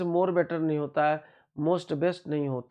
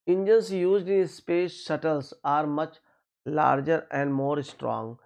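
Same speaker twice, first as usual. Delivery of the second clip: slow sentence reading; much slower than usual. Shown as a demonstration. Reads the exam sentence.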